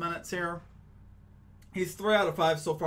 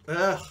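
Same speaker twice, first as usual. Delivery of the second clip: short, louder groan at a slip; frustrated "ugh"; 3 semitones higher, 5 dB louder than usual. Real, not acted. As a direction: blurt an "ugh" at your own stumble. Trips over his own sign-off.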